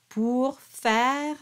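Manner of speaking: "faire" as one syllable, final E silent; dropped final E. Shown as a demonstration. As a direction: model "pour faire" without sounding the last E of "faire". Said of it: "we drop the E".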